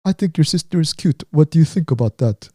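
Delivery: teasing in a badly faked Jamaican accent; clumsy Jamaican accent, mischievous; terrible Jamaican accent. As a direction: imitate a Jamaican friend winding someone up. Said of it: "this is a terrible Jamaican accent".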